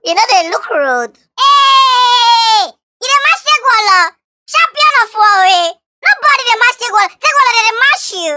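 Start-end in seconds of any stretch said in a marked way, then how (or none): 1.4-8.3 high, indignant crowing challenge; outraged boasting. Acted. Champion defies a challenger, outraged high boasting.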